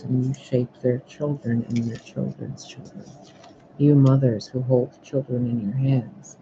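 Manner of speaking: measured oracle pronouncement. Acted. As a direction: proclaim it like an oracle, stressing key words. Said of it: "I'm gonna do the oracle thing for you".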